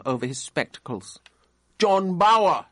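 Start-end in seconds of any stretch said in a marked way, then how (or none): 1.8-2.7 louder, higher stern call; stern repeat. A narrator's reading. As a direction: bark the name again impatiently. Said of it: "he repeated".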